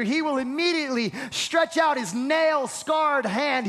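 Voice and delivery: preaching at full force, rising. Acted. Preacher to church, fervent preaching. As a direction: preach it with fire to the congregation.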